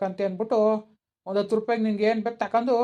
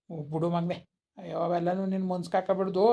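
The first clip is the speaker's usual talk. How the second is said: consoling; 2 semitones lower, 5 dB quieter than usual. Acted. Grandfather consoles upset child.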